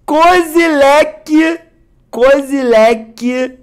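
awed drawing out. Real, not acted. Naming the rare card to viewers, slow awestruck savoring. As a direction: savor each syllable like a treasure.

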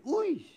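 high laughing "uish"; amused exclamation. Real, not acted. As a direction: scoff with a laugh at the fool. Preacher reacts to foolishness.

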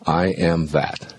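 slow, calm mantra; slow inner mantra. Shown as a demonstration. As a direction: intone it slowly. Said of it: "let your inner mantra be".

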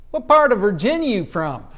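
lightly voiced local, lifted and loud; curious local. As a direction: put a hint of a nosy local into the question. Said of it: "people would come up to me".

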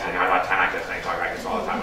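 a hint of a hoarse late-night radio DJ; imitating the patient's hoarse voice for the audience; Wolfman Jack voice. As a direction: lightly rasp it out like a worn-out shouter. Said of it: "We called him Wolfman Jack because it was a radio personality".

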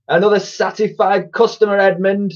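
high-pitched cheery chirp; perky, high villain voice. A narrator's reading. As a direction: chirp it gleefully to your twin. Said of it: "chirped one".

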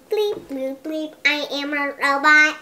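monotone robot voice. Pretend. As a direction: speak like a stiff robot. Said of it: "She says to talk like a robot".

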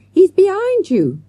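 high, loud, slow cry; girl warning her teacher of danger; urgent warning. A narrator's reading. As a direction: shout it before it is too late.

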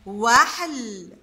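"وحل" stretched very slowly; very slow modelling of "وحل"; drawn out. Shown as a demonstration. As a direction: say "وحل" at a crawl, every sound held. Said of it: "هنا مركبة عنا وهنا قطعناها".

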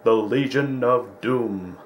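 hint of a cartoon announcer unveiling villains; mock ominous narration. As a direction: draw out the villainous title for mock drama.

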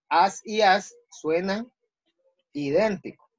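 "As y as" said slowly, both with the same sound; slow, deliberate contrast. Shown as a demonstration. Teacher to class, slowly showing two words sound alike. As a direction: draw out "As y as" to show they sound identical. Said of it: "en el sonido, casi no hay ninguna diferencia".

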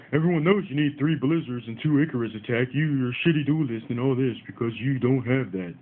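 lightly voiced know-it-all commenter, a mild mock sneer; rude troll commenter. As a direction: read out the rude comment in a half-mocking voice. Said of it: "One dude came up on the channel and was like".

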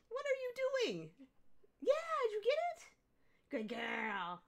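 very high, fast excited questions. Real, not acted. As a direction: squeal at the dog as she plays. Baby talk to dog.

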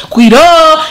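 high, loud slurred answer; groggy from anesthesia. Retold or imitated. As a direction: blurt the name half-dazed.

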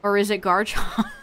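barely suppressing a giggle; holding back a laugh. Real, not acted. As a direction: try not to crack up. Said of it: "I couldn't even say that one without laughing".

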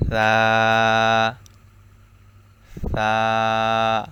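সা with tongue tip at the tips of the upper teeth, soft; soft tha demo. Shown as a demonstration. Teacher demonstrating the letter, soft. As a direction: lisp it softly, tongue on teeth. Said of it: "automatically নরম হয়ে যাবে".

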